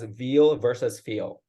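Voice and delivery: "veal" with a hard V, "feel" with a soft F, slowly; slow V versus F contrast. Shown as a demonstration. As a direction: set "veal" against "feel", leaning on the V. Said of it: "if you replace the V with a soft F".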